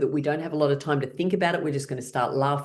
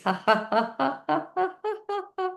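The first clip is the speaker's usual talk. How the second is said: ha ha climbing much higher; rising laugh; 12 semitones higher, slower than usual. Shown as a demonstration. Feet on the floor, laughter climbing up the legs. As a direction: let the laugh rise up from your feet. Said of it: "laughing coming up your legs".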